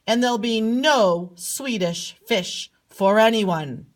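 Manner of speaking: mildly angry king, emphatic; mildly mad. Acted. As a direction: play a king getting a bit mad. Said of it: "he gets kind of mad".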